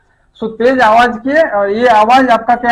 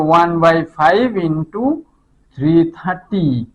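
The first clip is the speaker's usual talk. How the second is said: drawn-out, slightly lower words; slow working aloud; 4 semitones lower, much slower than usual. Shown as a demonstration. Teacher working out the distance for students, slow dictation. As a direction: say each figure slowly as it is written.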